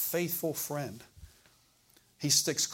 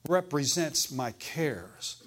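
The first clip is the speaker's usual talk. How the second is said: each word drawn out slowly; slow, deliberate teaching emphasis; slow emphatic; much slower than usual. Shown as a demonstration. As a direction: spell out represents my cares slowly. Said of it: "for example".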